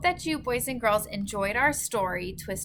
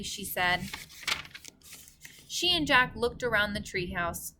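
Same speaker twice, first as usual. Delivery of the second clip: gentle storybook read-aloud; story narration. A narrator's reading. Reader narrating a story to boys and girls, gentle read-aloud. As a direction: tell it like a bedtime story for kids.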